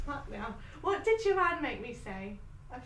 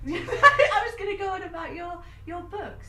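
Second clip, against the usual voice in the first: laughing; 6 semitones higher, 9 dB louder, slower than usual. Real, not acted. Laughing mid-sentence.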